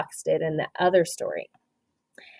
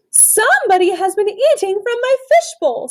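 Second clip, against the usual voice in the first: raised, lively father's line; daddy person voice; 12 semitones higher, 4 dB louder than usual. A narrator's reading. Teacher voicing the daddy person to the class, mildly indignant. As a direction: read the dad's complaint with a lift. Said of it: "said the daddy person".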